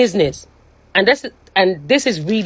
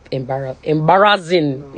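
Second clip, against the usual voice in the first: tearful; 4 semitones lower than usual. Real, not acted. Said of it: "I was fucking crying".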